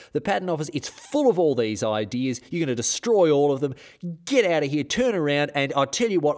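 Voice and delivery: a hammed-up indignant telling off; mock-angry rant. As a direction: scold the soldiers in front of the cannon, half in jest. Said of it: "he says".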